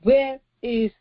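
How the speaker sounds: slow, weighty divine question; measured, stern question from the Lord; solemn God questioning. Acted. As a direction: let each word land slowly, like God confronting Cain. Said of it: "Then the Lord said to Cain".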